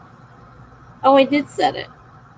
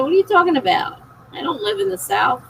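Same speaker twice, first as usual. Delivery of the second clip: lively, higher-pitched retold objection; mock-baffled protest; 5 semitones higher than usual. Answering people who hear an accent, mock-baffled. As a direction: act out your puzzled comeback, pitch jumping up on the question.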